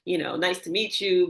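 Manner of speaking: mock-polite corporate small talk; corporate greeting. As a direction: imitate an automatic business introduction. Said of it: "I would do in corporate".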